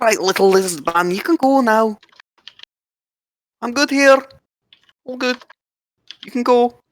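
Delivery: very high, shrill shouted call. Voicing a character who calls to the lizard man while mining: shouting. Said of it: "And you just hear him shout".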